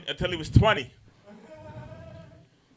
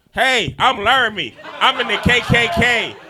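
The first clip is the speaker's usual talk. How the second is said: loud, goofy finger puppet voice; goofy muffled sock puppet; 6 semitones higher, 7 dB louder than usual. Pretend. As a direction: squeak it out as a silly puppet. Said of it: "here's a finger puppet impression of Laramie".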